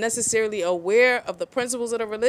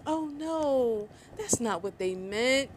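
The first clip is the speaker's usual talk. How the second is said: mock naive defense; 3 semitones higher, 6 dB quieter, slower than usual. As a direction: mimic the excuse-makers.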